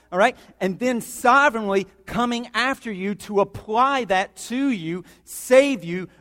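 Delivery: emphatic preaching. Acted. Preacher telling church God pursued them, emphatic preaching. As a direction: preach it with rising force.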